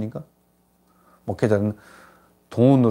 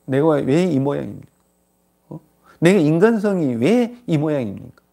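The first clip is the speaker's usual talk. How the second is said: acted anguish, mildly raised pitch; anguished self-reproach; 4 semitones higher than usual. Preacher voicing a sinner grieving over their own nature, mildly anguished. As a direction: lament your own failings, lightly acted. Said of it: "정말 너무 괴로워야 됩니다".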